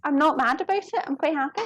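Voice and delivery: lightly put-on Irish accent. Streamer quoting a viewer in a light Irish accent. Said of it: "it sounds like Irish".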